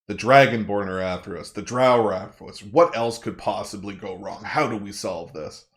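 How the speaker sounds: understated frustration, voicing the character's worries; frustrated. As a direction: think aloud with a touch of frustration. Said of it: "He's just frustrated".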